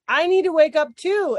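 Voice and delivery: high, pleading puppy voice; puppies' whiny plea. Retold or imitated. Puppies whining at the morning alarm, high and pleading. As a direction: play the eager puppies begging to get up.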